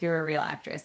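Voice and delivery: settled, falling statement in a normal pitch; matter-of-fact confirmation. Retold or imitated. Casting director answers the stunned actress, simply confirming. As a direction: confirm it simply, without the question.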